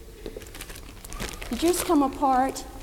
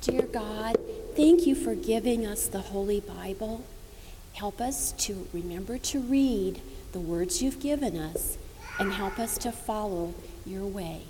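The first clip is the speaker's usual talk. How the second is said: prayer. Acted. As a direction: pray gently with the children. Leads children in prayer.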